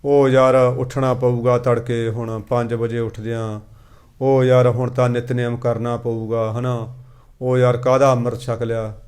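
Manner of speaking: low, slow, weary grumble; reluctant, duty-bound. Acted. Preacher mimicking devotees dreading the early prayers, reluctant grumbling. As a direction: drag it out like an unwilling worshipper. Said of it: "ਅਸੀਂ ਕਰਦੇ ਹਾਂ ਬੱਧੇ ਰੁੱਧੇ".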